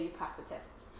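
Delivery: soft, breathy whisper; quiet. Retold or imitated. Recalling God's voice to the group, whispered. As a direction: let God's words fall softly. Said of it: "I heard the Lord say".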